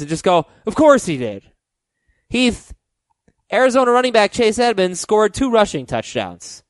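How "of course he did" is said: weary, fed-up sigh of a line; exasperated eye-roll. Shown as a demonstration. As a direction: say it like you saw it coming. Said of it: "throw your hands up in the air, kinda roll your eyes".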